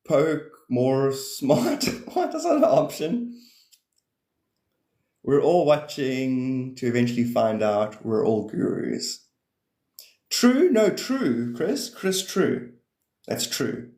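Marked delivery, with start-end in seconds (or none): 2.1-3.4 mock surprise. Mock outrage, high. 10.3-12.7 excited call. Real, not acted. High calling to Chris.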